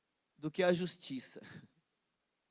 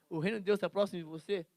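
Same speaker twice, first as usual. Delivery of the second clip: mock question; 6 dB louder, faster than usual. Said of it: "Sabe como assim, ó?".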